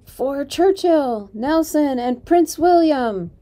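slow, high, loud battle cry; triumphant slow rallying shout. Acted. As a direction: bellow each name like a charge. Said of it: "Jane still shouting".

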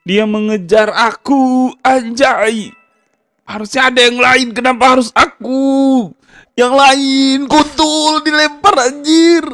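very high panicky yelps; panicked squeal. Real, not acted. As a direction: squeal while being chased. Panicking while chased. (panik melengking)

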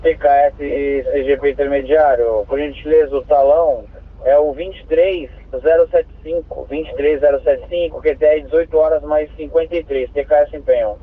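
crackly two-way radio transmission; squelchy handheld radio; police radio. Real, not acted. Dispatcher over radio.

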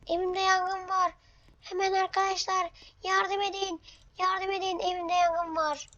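playful panic over a game house fire; mock panic. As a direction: call out to friends as the fire spreads. House fire, calling friends for help.

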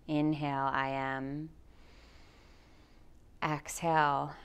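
calm, measured guide voice with long pauses; guided meditation. Acted. Yoga teacher guiding listeners through anxiety, in guided meditation voice. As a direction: lead them slowly into grounding, leaving space for breath.

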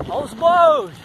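high, loud sudden exclaim; surprised. Real, not acted. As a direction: spot something startling. Sees cattle on road. (surpreso e alto)

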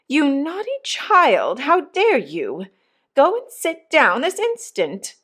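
slow, high-pitched indignant mother; indignant scolding. A narrator's reading. Missus Pocket scolding little Jane, slow and indignant. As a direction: draw out each word in outrage.

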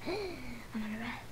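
soft, low-key murmur; talking low. Real, not acted. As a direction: keep it quiet and low. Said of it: "I'm talking so low".

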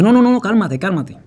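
high, loud rushed reassurance; hurried calming. Retold or imitated. Officer hastily calming the prisoner, high and loud. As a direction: rush to calm him down.

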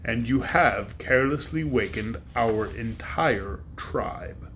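great dragon passing judgement on Woot. Acted. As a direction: weigh each word like a ponderous beast.

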